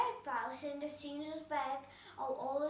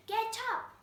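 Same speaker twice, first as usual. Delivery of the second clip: high, loud royal shout; cried out; 8 semitones higher, 5 dB louder than usual. A narrator's reading. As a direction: bark the order at the soldiers. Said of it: "cried the queen".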